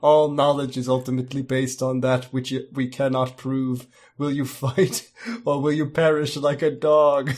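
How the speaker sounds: lightly attempted duck voice; a hint of cartoon duck, half-laughing; Donald Duck voice. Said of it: "I got him doing Donald Duck voice".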